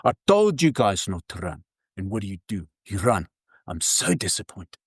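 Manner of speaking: lightly put-on South African accent. Furious guide telling off his tourists, imitated South African accent. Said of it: "in his South African accent".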